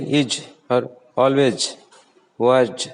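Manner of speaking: "is", "always", "was" ending in a j sound; mispronounced z sound. Shown as a demonstration. Teacher showing what people say, j for z in "is", "always", "was". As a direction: turn the final z of "is", "always", "was" into j. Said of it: "People say like is".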